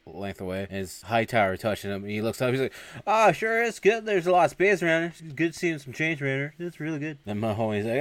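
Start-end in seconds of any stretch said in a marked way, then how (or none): 3.0-7.2 high-pitched, over-agreeable voice; acted-out nervous recruit; flustered backtracking. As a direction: placate the big guy behind you. Recruit nervously backtracks to huge man.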